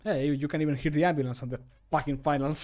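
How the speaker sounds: ordinary talk, nothing marked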